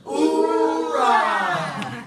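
rising military battle cry; loud gung-ho soldier. Real, not acted. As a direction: yell it like a Marine. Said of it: "So we're gonna yell out".

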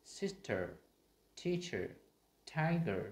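"sister", "teacher", "tiger" with light final er; unstressed er examples. Shown as a demonstration. Teacher giving examples, careful light endings. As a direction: stress the first syllable, relax the end of "teacher". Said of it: "Và đây".

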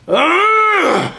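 high strained yelp cry; hammed-up anguished grunt; pained yelp. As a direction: let out a sharp high yell. Outburst in rap bit.

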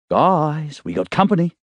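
high urgent call; alarmed warning. Acted. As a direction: warn them the monsters are here. Dee alarmed in chase.

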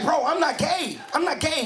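emphatic mock-defensive denial; insistent denial. Acting out insistent denial to friend.

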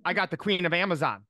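retold excited announcement. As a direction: announce big news as the thrilled coach. Retold excited coach announcing news.

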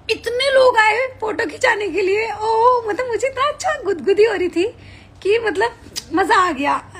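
giddy, like being tickled; tickled delight. Real, not acted. Streamer telling fans about photo crowds, tickled giddy delight.

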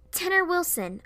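sudden high-pitched, forceful blurt; sudden sputter. Acted. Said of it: "I suddenly sputtered out".

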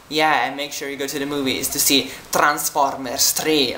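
put-on light Italian accent on the radio host's line; a radio ad read with a hint of an Italian accent; imitating Italian accent. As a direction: mimic an Italian radio host in English, lightly. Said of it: "that's such an Italian accent".

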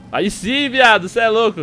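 high, loud celebration; excited cheer. Real, not acted. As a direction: whoop with joy. Celebrating escape. (comemoração animada)

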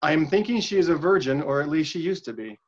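flat line reading with no inflection; even, uninflected quote; monotone read. Shown as a demonstration. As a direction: read it deadpan so nobody can tell who said it. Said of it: "I'm not gonna read it any kind of inflection".

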